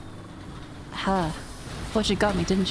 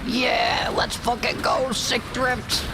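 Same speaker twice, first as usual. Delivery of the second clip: hyped shout; 2 semitones higher, slower than usual. Real, not acted. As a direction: cheer the stunt with full hype. Hyped at game stunt.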